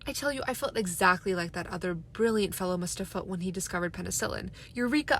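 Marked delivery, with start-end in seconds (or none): 4.7-5.2 loud, high shout of discovery; triumphant cry. A narrator's reading. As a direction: burst out with a triumphant Eureka. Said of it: "I cried".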